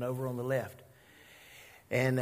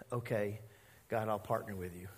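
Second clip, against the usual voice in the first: lower, softer reluctant giving-in; grudging Jonah; 7 semitones lower, 9 dB quieter than usual. Retold or imitated. Jonah gives in to God after the fish, lower and softer. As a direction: mumble the surrender. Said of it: "And Jonah says".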